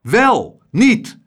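korte, luide, hoge uitroepen; kibbelend geroep. A narrator's reading. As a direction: kaats fel heen en weer. Echtpaar kibbelt luid heen en weer. (luid welles-nietes)

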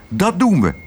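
high, upbeat reply; happily agreeing; cheerful call. A narrator's reading. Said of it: "riep Tos vrolijk".

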